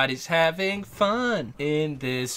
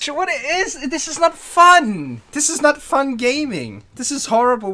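loud whining; 9 semitones higher, 4 dB louder than usual. Real, not acted. Complaining loudly about the game.

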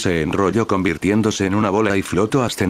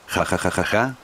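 softer, bouncy mock ha-ha; lively laugh; 3 dB quieter than usual. Majin Buu laughs as the pink mass traps Vegito, softer gleeful laugh. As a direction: laugh in triumph, lightly played. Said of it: "rió animado".

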